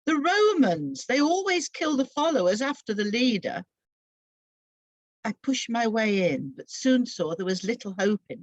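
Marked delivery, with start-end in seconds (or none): 0.1-3.6 a scared man whispering danger; fearful warning. Acted. James warning Mary about the Romans, afraid. Terrified disciple warns of Romans.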